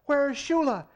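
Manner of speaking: high loud angry demand. A narrator's reading. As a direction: bark the question at the room. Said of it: "he demanded".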